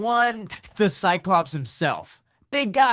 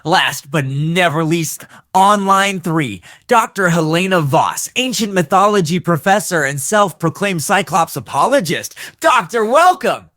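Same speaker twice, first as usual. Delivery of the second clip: hyped host intro; 3 semitones lower, 9 dB louder than usual. Real, not acted. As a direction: announce the star guest. Host hypes last caller.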